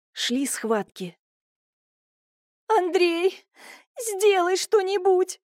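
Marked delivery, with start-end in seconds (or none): 2.7-5.4 high, slow tearful begging; crying plea. A narrator's reading. Wife in labour begging her husband, crying. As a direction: plead through tears. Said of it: "плакала Марийка".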